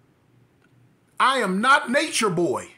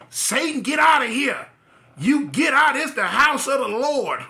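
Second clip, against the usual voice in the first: auntie shouting; 4 semitones higher than usual. Retold or imitated. Auntie sweeping the snake out of church, shouting. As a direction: cast the devil out with a broom.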